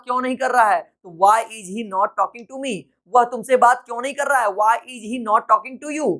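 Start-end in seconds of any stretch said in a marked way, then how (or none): 1.2-2.8 very slow, each word separate; slow teacher read; slow dictation. Shown as a demonstration. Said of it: "teacher repeating sentence slowly". 4.5-6.1 very slow, word by word; slow teacher read; slow dictation. Shown as a demonstration. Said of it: "teacher repeating sentence slowly".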